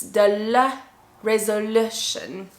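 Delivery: "resolution" drawn out slowly, LU made strong; stress on LU. Shown as a demonstration. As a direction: punch and stretch the LOO in "resolution". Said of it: "make it stronger with your voice".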